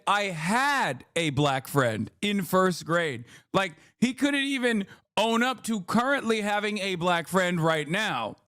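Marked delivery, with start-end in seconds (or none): 0.1-3.2 slow, drawn-out mocking of Piers; mock quote. Streamer mocking the guest's excuse, slow mock voice. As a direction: stretch each word out, mocking the guest. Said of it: "So he said".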